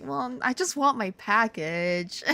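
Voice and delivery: slow, pouty little plea; hammed-up sulky request; mock pleading. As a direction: plead slowly with a pout. Acted plea on retold phone call.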